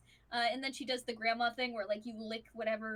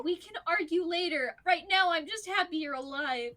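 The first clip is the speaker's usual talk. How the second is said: grandma voice; 6 semitones higher, 5 dB louder than usual. Acted. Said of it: "she's like".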